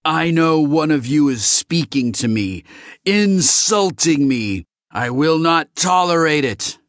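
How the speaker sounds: angry alien laying down the law; outraged accusation. Acted. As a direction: declare it furiously, drawing out the insult. Enraged alien accuses the humans.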